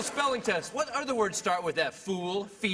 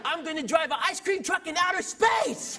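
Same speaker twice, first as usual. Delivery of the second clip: put-on excited kid; 6 semitones higher than usual. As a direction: blurt it like an eager child.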